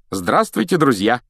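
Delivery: high, loud welcome; delighted greeting. Acted. Mr Weasley greets the Grangers, delighted. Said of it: "восторженно приветствовал".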